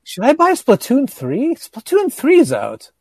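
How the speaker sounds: high, loud eager question; excited. Real, not acted. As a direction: burst out with excitement. Excited about the new Splatoon.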